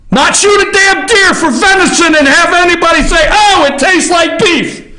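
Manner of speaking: high mocking voice for the hunter. Talk show host mocking a hunter, high mock voice. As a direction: mimic a clueless hunter bragging.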